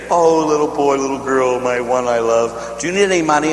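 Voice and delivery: lightly voiced doting grandma; a hint of a grandma offering money. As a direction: coo it like a sweet grandmother. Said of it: "When you sit there and say".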